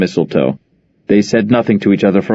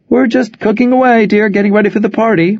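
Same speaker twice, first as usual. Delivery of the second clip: much higher, bright surprised mother; delighted phone greeting; 12 semitones higher than usual. Acted. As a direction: greet your daughter warmly on the phone.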